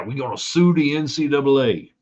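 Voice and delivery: a hint of a Southern accent, teasing. Host mocking West Virginia's lawsuit threat in a light Southern accent. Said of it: "West Virginia does not talk like somebody in the South".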